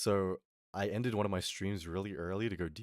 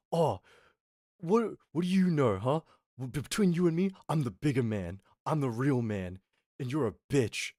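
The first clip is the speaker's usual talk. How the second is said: mock belligerent boasting, starting high and raised; imitating shouting brother; 3 semitones higher, 3 dB louder than usual. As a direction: act out a challenge, easing off after the opening. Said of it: "shouting at me".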